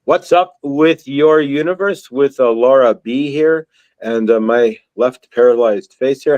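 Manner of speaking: slurred from dental numbness; numb mouth. Real, not acted. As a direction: talk with half the mouth numb. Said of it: "if I sound a little loopy here, I'm half paralyzed".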